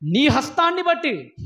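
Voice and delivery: slow, sinking voice for the prophet's grief; mournful lament. Retold or imitated. Preacher voicing Jeremiah's lonely anguish, slow and mournful. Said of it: "కడుపు తరుక్కుపోతుందటండి ఆయనకి".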